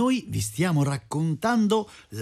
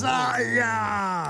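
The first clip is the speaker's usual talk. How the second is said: high, drawn-out mock ouch; pained yelp; 5 semitones higher than usual. A narrator's reading. Storyteller voices the smith stung on the nose, yelping. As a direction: play a cartoon cry of pain.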